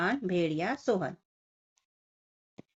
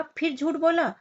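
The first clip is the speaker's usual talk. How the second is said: angry farmers; 3 dB louder than usual. Acted. Farmers scold the shepherd boy who lied again, angry. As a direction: scold the lying boy, fed up. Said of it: "किसानों ने कहा".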